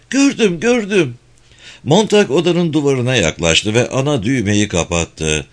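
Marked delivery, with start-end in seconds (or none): 0.1-1.1 high dismissive woman's voice; Mildred. A narrator's reading. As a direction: brush him off, high and quick. Mildred answers, absorbed.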